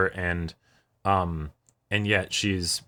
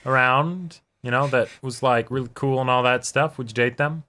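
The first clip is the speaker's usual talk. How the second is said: voicing the character; 4 semitones higher than usual. Voicing a character asking Tomoya.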